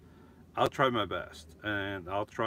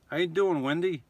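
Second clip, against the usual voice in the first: lightly put-on New York accent; 4 semitones higher, 3 dB louder than usual. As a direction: greet her with a hint of playful New York accent. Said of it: "New York accent".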